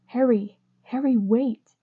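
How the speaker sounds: loud call after someone running away. Acted. Draco calling after Harry as he runs off, loud. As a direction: shout his name to stop him.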